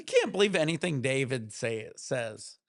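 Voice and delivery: slipped into a light Southern accent; Southern twang creeping in unplanned; accidental Southern. Real, not acted. Streamer caught slipping into Southern. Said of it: "out of the blue, my Southern came out".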